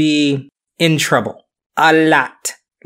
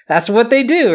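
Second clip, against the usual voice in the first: put-on Scottish accent; 8 semitones higher than usual. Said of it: "that's what us Scots do".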